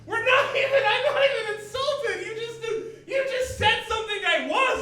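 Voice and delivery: high-pitched, loud indignant protest; exasperated protest. Acted. Comic protests to his accuser he isn't insulted, exasperated. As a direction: insist in worked-up disbelief, voice way up. Exasperated reply to the whiny dude.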